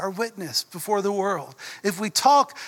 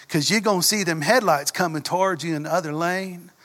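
put-on deep Southern accent. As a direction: imitate the coach warning in a thick Southern accent. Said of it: "I'm not exaggerating his accent at all".

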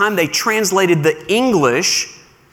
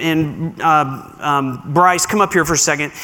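usual speaking voice

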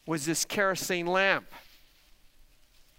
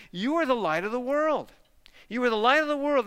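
emphatic quote; 6 semitones higher than usual. Real, not acted. Quoting Jesus to congregation.

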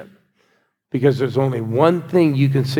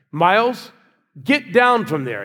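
retold warning; 5 semitones higher, slower than usual. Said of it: "I said".

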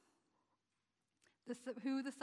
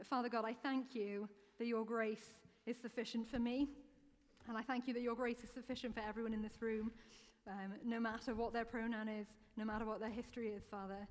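prayer. Acted. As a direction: pray gently over the room. Closing prayer.

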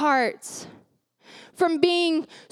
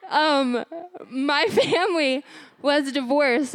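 tearful. Real, not acted. Preacher gets emotional about her divorced family, tearful. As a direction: voice near tears. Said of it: "I'm gonna get it".

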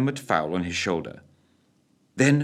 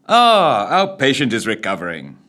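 warm pleasant tones; 3 semitones higher, 6 dB louder than usual. A narrator's reading. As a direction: welcome the waking patient kindly. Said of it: "came warm, pleasant tones".

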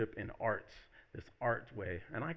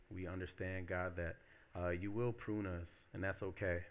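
prayer. Real, not acted. Preacher leading congregation in thanks to God, prayerful.

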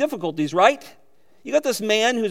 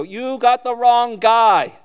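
retold protest to God; 4 semitones higher, 7 dB louder, much slower than usual. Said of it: "I go".

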